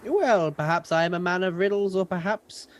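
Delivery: smug riddler. Acted. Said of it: "Johan says out loud".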